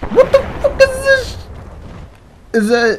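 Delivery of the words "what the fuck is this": very high-pitched, startled outburst; real startled reaction. Real, not acted. Gamer reacting to something in the game, startled. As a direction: squeak it out in alarmed disbelief.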